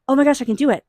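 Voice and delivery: gasp, then a high, loud "oh my goodness"; excited gasp. Acted. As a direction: act out the thrill of good news. Acted joy at a win.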